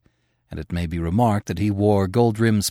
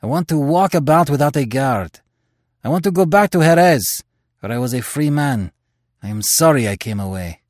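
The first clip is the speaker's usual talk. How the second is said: pleading; 5 semitones higher, 4 dB louder than usual. Acted. Terry pleading for freedom.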